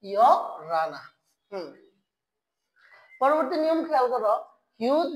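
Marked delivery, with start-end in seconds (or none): 0.0-1.0 ইয়, a pause, then lower রানা; broken-up pronunciation model. Shown as a demonstration. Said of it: "কি হয়ে যাবে?".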